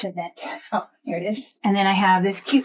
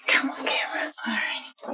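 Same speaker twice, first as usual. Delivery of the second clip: whispering; 4 semitones higher, 5 dB quieter than usual. Real, not acted. Whispering to herself.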